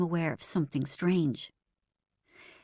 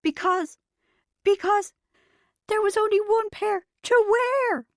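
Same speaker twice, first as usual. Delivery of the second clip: higher, breaking; convulsing with laughter; 13 semitones higher, 4 dB louder than usual. Acted. Bridget convulsing with laughter, starting the punchline. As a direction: force it out mid-laugh. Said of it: "convulsed Bridget".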